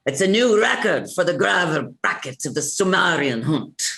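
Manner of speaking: rolling announcement to the crowd; Irish-accented record announcement; announcer call, changed accent. Acted. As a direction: proclaim it, with "Sumerian" as soo-MAR-ee-an. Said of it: "with that slight accent change on Sumerian".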